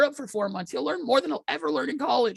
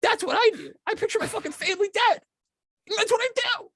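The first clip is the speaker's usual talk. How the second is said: mock hustle guru; 3 semitones higher than usual. Mock Gary Vee rant.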